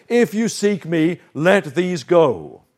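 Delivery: steady, unhurried words of Jesus; calm. Retold or imitated. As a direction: say it calmly, slowing on the last words. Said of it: "And he calmly says".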